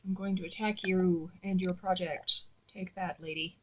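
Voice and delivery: mad scientist. Acted. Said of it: "It's like".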